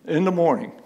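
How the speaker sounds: loud, emphatic public complaint. Real, not acted. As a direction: press the point forcefully to the commission. Resident finishes his loud challenge.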